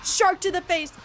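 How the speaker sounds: loud, high battle cry; excited shout. Real, not acted. Gamer yelling at a shark attack, loud and high. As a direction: yell it as the shark hits.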